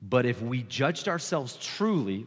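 measured, deliberate scripture reading; slow reading. Real, not acted. Preacher reading Paul's words to the congregation, slowly. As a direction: take the verse slowly and carefully. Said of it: "I'm gonna read this slowly".

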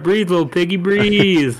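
coaxing voice. Retold or imitated. Quoting a scene, teasing.

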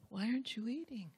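tender why aren't you eating; gentle concerned question. Shown as a demonstration. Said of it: "Or did you say".

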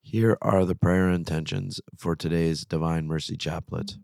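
rough voice from a sore throat; gravelly voice. Real, not acted. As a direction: speak through a sore, raspy throat. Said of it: "sorry for the gravelly sort of voice".

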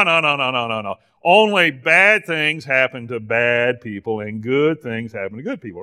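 mock-naive back-and-forth with himself; sarcastic. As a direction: play at correcting your own silly idea. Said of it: "I'm being sarcastic".

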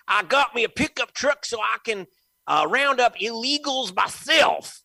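lampoon the governor as a country bumpkin; mock goober. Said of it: "like, talk like a goober".

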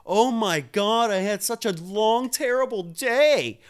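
sarcastic imitation of a self-pitying complainer; mock whining. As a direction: mimic a whiny office worker moaning about their day. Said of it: "People come home and bitch".

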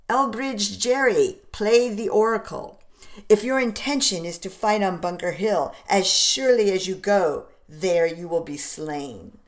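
a hint of a blustery pompous doctor; blustery pompous mayor. Warren voiced by narrator.

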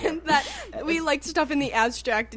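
laughing through the words. Real, not acted. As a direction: say it while laughing. Laughing while explaining.

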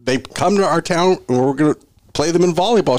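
high, excited retelling of himself. Retold or imitated. Telling the girl they are Central fans, high and excited. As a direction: gush it up high. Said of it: "And I was like".

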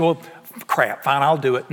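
grudging, reluctant giving in; mock reluctant agreement. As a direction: give in grudgingly, low-pitched. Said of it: "that's, that's grudgingly".

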